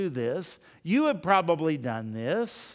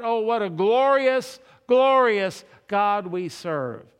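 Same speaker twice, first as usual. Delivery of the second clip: pious praise; 3 semitones higher, 5 dB louder than usual. Pretend. Mock devout praise in quiet time.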